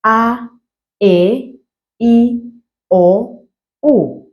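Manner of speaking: each Ndebele vowel said clearly and separately; vowel demo. Shown as a demonstration. Teacher modelling vowels for learners, clearly. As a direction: pronounce each vowel in isolation. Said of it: "let's do the vowels first".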